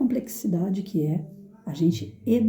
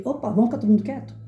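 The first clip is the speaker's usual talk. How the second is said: brisk, lightly imperious request; commanding teacher tone; 3 semitones higher, faster than usual. Shown as a demonstration. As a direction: take charge of the class without yelling. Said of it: "altiva, né? Eu tenho aquela coisa assim de".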